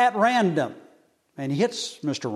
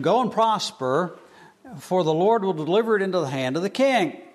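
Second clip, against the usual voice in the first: mock blessing, a touch higher and faster; sarcastic; 4 semitones higher than usual. Prophet to Ahab, sarcastic promise of victory. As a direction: say it sweetly but mean the opposite. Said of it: "saying this in such a sarcastic way".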